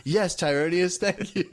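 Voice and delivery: high mock gratitude; hammed-up grateful fan; grateful kid. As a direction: squeak out a thank you. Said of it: "And like".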